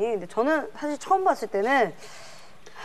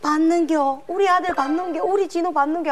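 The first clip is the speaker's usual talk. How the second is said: higher, pleading rustic mother; Kim Young-ae's mother role; 4 semitones higher than usual. Retold or imitated. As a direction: plead like a desperate country mom. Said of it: "김영애 아주머니의 그 어머니 그 특유의 그 연기".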